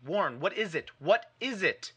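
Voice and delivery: high, rising panic; terrified repeating. Acted. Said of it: "Terrified, I continued to repeat".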